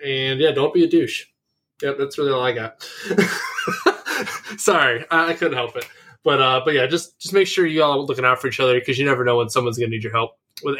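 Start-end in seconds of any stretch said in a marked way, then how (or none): 2.9-4.5 high squealing laugh; can't hold back a real laugh; burst of laughter. Real, not acted. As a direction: crack up at yourself. Laughs at his own line.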